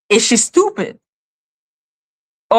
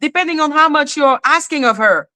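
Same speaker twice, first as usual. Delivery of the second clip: raised-pitch, insistent urging as the judge; lightly voiced judge; 5 semitones higher than usual. Judge urging plaintiff to subpoena everyone, lightly acted insistence. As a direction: hammer each command home, pitched up. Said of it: "But the judge said".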